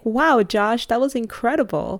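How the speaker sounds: impressed reaction. Retold or imitated. Family applauding Josh's song, impressed. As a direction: gush a little, imitating an impressed crowd. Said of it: "everyone's so impressed and clapping".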